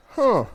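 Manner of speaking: "Huh" high and loud, like a question mark; a high, baffled "Huh". Retold or imitated. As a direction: pitch "Huh" up as a puzzled question. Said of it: "You know, like a question mark".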